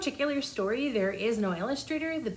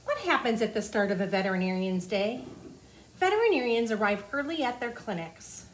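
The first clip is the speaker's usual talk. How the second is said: put-on reading to children. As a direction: clear storybook read-aloud. Reading the book aloud.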